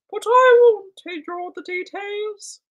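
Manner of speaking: high, slow whiny plea; drawn-out childish begging; a light pouty fantasy voice. Pretend. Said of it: "Why is that my fantasy voice?".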